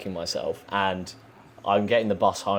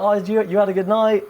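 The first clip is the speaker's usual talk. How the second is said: high, louder teasing mum; 12 semitones higher, 7 dB louder than usual. Retold or imitated. Mum teasing her son from the car window, high and amused. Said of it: "she's like".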